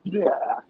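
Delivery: quick imitation of puking; imitated retch. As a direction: act out vomit spewing out. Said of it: "decides to just throw up".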